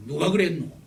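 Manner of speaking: father asking in Gyeongsang dialect; 경상도 사투리로 묻기. Retold or imitated. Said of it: "경상도 말로 말".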